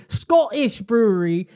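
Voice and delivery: bad attempt at a Scottish accent. Shown as a demonstration. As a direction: say it with a Scottish lilt. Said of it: "That was not Scottish".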